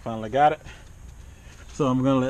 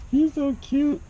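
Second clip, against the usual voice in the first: much higher, squealing with delight; gushing over the cat; slower than usual. Real, not acted.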